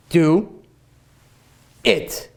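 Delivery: drawn out. Shown as a demonstration. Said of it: "I'll say it one more time".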